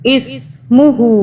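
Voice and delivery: मुहु with the final हु drawn out the length of an alif; stretched ulta pesh. Shown as a demonstration. Teacher stretching the vowel for students. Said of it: "अलिफ के बराबर खींच के पढ़ा जाता है".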